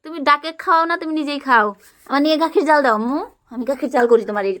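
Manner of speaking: put-on high, bright play voice for a small child; playful toddler-talk. Mother playing house with her toddler, high coaxing voice. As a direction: coax the little one along in pretend play.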